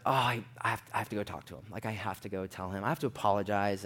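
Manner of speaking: regretful realization. Retold or imitated. Realizing he must go apologize, low regretful self-talk. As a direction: say it low, as if to yourself.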